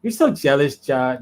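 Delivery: man doing a woman's voice; light mocking girlfriend voice; white girl voice. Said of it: "my white girl voice is pretty good".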